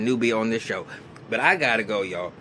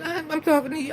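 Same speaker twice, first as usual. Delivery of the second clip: imitating a sharp comeback; faster than usual. Retold argument, Maya answers.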